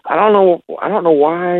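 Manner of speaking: frustrated, high-pitched questioning, as retold; retold anger. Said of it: "kinda angrily kinda was like".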